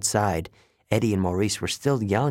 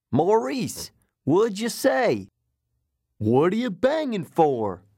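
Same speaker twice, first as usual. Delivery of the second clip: high-pitched acted shout; shouting back; 9 semitones higher than usual. Eddie outside the trailer to Maurice inside, shouting back. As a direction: call back through a wall, drawn out. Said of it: "shouted back".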